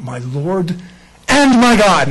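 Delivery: Thomas's declaration of faith; awed proclamation. Retold or imitated. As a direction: cry out in awe. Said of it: "Thomas makes that incredible statement".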